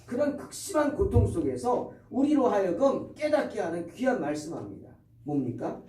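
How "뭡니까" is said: ordinary talk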